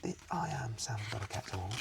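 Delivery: high, eager self-introduction; upbeat intro. Shown as a demonstration. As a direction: greet like a friendly fan. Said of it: "consider going".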